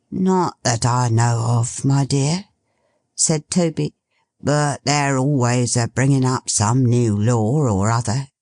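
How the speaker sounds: put-on old father savouring the smell; old Toby. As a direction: sniff and savour like an old man.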